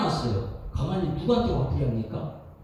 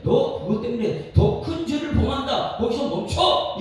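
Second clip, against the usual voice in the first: louder, rising stern command; God warning; 5 semitones higher, 4 dB louder than usual. Retold or imitated. Preacher voicing God warning Cain to stop, stern raised command. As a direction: order him to stop, firmly. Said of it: "이렇게 얘기했는데".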